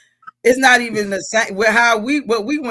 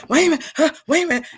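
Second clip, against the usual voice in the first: mild panic; 7 semitones higher, much faster than usual. Retold or imitated. Retells panicking as driving instructor.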